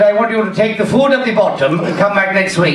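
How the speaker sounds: mock Indian doctor; Indian accent. Doctor telling the patient to return, Indian accent. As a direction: instruct in a put-on Indian accent. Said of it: "He was an Indian doctor".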